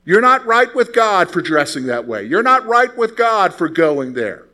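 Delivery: mock judgmental church voice. Judgmental churchgoer accusing a believer, mock stern. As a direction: wag a finger with every word. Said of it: "You ever heard that statement?".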